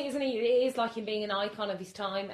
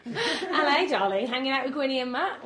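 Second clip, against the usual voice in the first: luvvie voice; 4 semitones higher, 4 dB louder than usual. Acted. Posh mock celebrity greeting.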